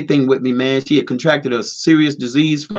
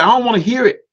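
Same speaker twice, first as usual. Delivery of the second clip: wife cutting him off, voice pitched higher; higher, fed-up refusal to listen; 8 semitones higher than usual. Retold or imitated. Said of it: "She said".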